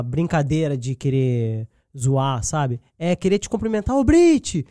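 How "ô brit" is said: high, loud cheerful hail; an imitated warm street greeting, called out loud; friendly call. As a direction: call her name like a happy fan.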